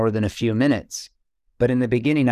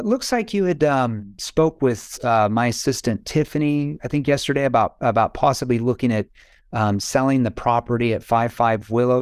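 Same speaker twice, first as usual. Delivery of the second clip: unhurried, not scripted. Shown as a demonstration. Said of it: "you can't say this fast".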